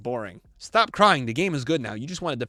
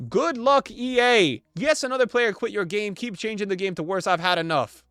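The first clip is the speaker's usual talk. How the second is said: raised, high opening that eases off; mock indignant rant; 5 semitones higher, 3 dB louder than usual. Streamer reads a quitting player's comment, mock indignant. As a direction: imitate a fed-up player quitting.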